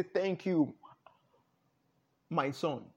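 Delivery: a gentle, measured answer to a worshipper; tender divine reply. Acted. God answering the one who worships, tenderly.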